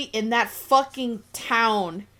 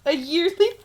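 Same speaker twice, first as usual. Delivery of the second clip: laughing disbelief; 9 semitones higher, 5 dB louder, faster than usual. Real, not acted. Incredulous laughing echo.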